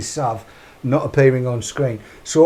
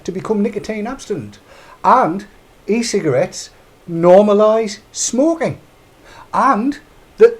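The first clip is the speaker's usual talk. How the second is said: higher-pitched quoting voice, lightly put on; Glenys Wilmot; 4 semitones higher than usual. Host quoting a politician's phrases to listeners, lightly mimicked. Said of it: "use some of the phrases that, uh, Glenys Wilmot used".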